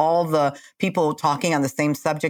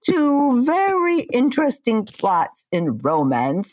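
hammed-up British accent, swooping pitch; 5 semitones higher than usual. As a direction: put on an exaggerated British narrator. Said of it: "Talk in a British accent".

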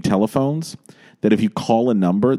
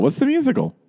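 quiz host. Acted. Game host quizzing co-host.

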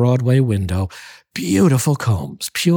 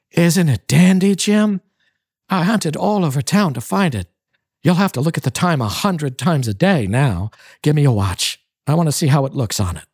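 higher, eager and bubbling; quick and bright at the end, pitched up; eager, excited; 4 semitones higher than usual. Acted. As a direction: she can't wait for him to see it.

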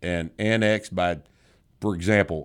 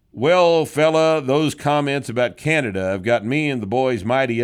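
hammed-up folksy voice, higher and louder; mock letter voice; 4 semitones higher, 4 dB louder than usual. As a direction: ham up the cocky letter writer, loud and high. Reading a listener's mock letter.

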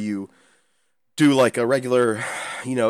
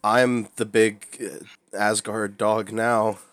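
wrestling promo; much slower than usual. Pretend. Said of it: "You have the same charisma".

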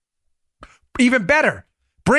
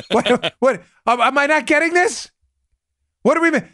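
baffled juror; 2 semitones higher than usual. Acted. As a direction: play a puzzled juror, halting and lost. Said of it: "The jury would be like this".

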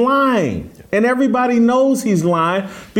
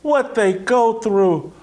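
mocking sympathy. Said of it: "this whole thing that".

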